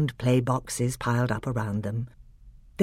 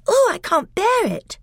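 very high, louder distressed plea; distressed girl; 5 dB louder than usual. Acted. Lucy cries out under the magic pull, distressed. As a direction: near tears, plead.

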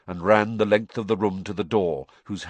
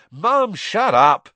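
loud high yell at mum; 11 semitones higher, 9 dB louder, slower than usual. A narrator's reading. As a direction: yell to cut her off. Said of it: "Ron yelled".

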